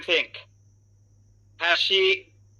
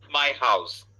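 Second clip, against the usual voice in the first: "my house" low, main stress on "my"; primary, secondary stress; 4 semitones lower than usual. Shown as a demonstration. Teacher models primary and secondary stress for students, stressed. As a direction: stress "my" first, then "house" falling. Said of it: "তো এভাবে আমাদের বলতে".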